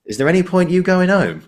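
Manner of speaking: high-pitched mock uncle voice; cheeky old uncle. Retelling Ricky's joke, the uncle teasing his nephews in a high mock voice. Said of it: "looks around the graveyard and goes".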